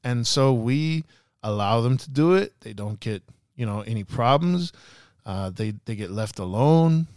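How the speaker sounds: measured crime boss with careful English; imitated evil boss. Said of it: "An evil accent".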